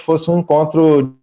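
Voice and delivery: audio dropping out; cut off mid word. Real, not acted. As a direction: voice cuts out mid phrase. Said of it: "Sumiu a sua voz".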